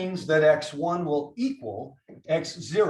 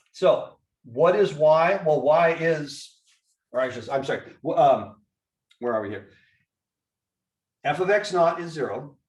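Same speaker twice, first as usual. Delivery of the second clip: just swallowed a bug; 4 dB louder than usual. Real, not acted. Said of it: "Swallowed a bug".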